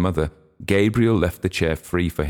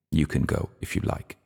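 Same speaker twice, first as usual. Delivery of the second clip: soft, curt and cold; 4 dB quieter than usual. Acted. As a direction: shut her down flatly. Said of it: "said Gabriel coldly".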